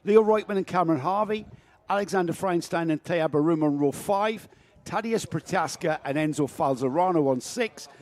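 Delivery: race commentary. Acted. Reading the grid.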